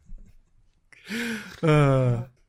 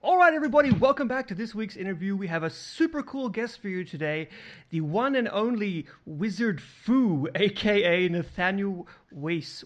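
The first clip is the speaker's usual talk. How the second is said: podcasting voice; 2 semitones higher than usual. Acted. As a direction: announce the guest like a show host. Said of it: "I'll put on my podcasting voice".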